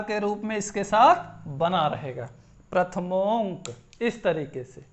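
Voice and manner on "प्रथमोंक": "प्रथमोंक" धीरे, अनुस्वार साफ़ बोलते हुए; "प्रथमोंक" में ओं का अनुस्वार थामकर, धीमे; उच्चारण दिखाना. Shown as a demonstration. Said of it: "इसका उच्चारण कैसे होगा". ("प्रथमोंक" को एक शब्द में, अनुस्वार के साथ धीरे)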